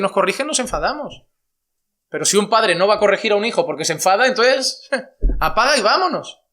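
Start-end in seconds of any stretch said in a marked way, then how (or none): 2.1-6.4 laughing. Real, not acted.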